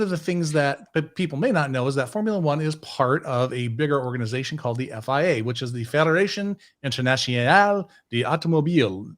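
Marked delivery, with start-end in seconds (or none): 5.9-9.1 put-on light French accent on the name; best French accent. Podcast host saying the F1 governing body's name, in a light French accent. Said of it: "that is in my best French accent".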